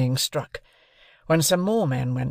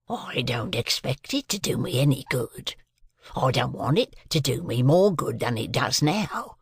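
rough convict. A narrator's reading. Convict answering the sergeant, lightly voiced rough convict. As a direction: grumble it like a hardened convict.

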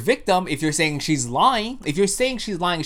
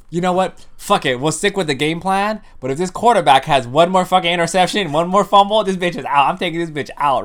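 louder, worked-up halftime rant; mock fed-up coach; 2 semitones higher, 6 dB louder than usual. Republicans back from halftime like coaches, mock exasperated rant. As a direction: play a coach ready to bench the quarterback.

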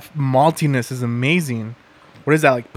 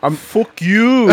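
laughing; 6 semitones higher, slower than usual. Real, not acted. Laughing at the Conor McGregor joke.

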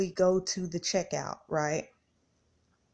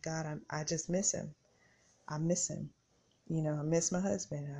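teary; 5 dB quieter than usual. Retold or imitated. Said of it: "my eyes felt like they were gonna well up".

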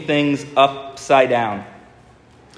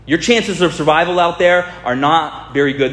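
overacting Tom Cruise; 4 semitones higher than usual. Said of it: "in his overacting".

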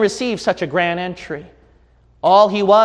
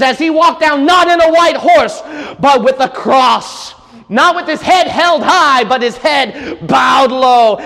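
high, loud preacher's cry; fervent pulpit shout; preaching at full force; 5 semitones higher, 5 dB louder than usual. Acted.

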